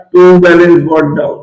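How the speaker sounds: "टू बैलेंस brought down" said slowly, word by word for notes; a teacher slowing down to dictate "टू बैलेंस brought down"; slow dictation. Shown as a demonstration. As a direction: spell it out slowly so the class can copy "टू बैलेंस brought down". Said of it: "बोल के यहाँ पे आएगा".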